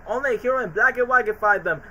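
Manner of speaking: lightly voiced wise old goat; old goat soothsayer. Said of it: "the goat from Kung Fu Panda two literally said".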